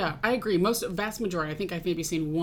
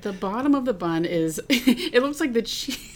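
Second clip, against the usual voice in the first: talking through a mouthful; words round a bite of food; mouth full; 4 semitones higher, 6 dB louder than usual. Real, not acted. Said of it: "don't worry about talking with your mouth full".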